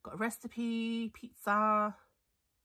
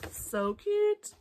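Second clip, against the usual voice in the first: excited squeal; 12 semitones higher, 5 dB louder than usual. Real, not acted. Cooing over cute dog papers.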